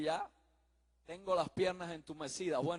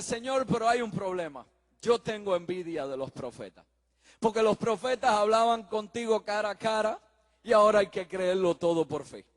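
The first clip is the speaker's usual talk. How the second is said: earnest plea; 7 dB louder than usual. Acted. Missionary pleads his complaint to God.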